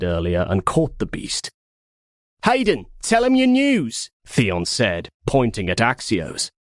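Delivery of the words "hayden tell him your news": high, bright eager urging; eager teasing. Acted. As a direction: egg him on playfully. Theon urges Hayden eagerly.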